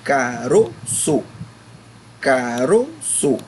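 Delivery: caroço very slowly, syllable by syllable, "ro" strong; stress on middle syllable. Shown as a demonstration. Teacher demonstrates the penúltima to pupils, slow caroço with stressed "ro". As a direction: draw out caroço, pushing the "ro". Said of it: "Esse ro é pronunciado com mais força".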